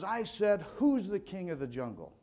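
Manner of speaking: hammed-up lion demanding an answer; mock roaring lion. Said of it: "he lets out a, a mighty roar".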